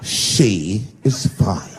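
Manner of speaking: very slow, low, haughty put-on voice; offended friend at the party; mocking friend. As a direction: drag each word out like an offended friend. Friend snaps back at the party.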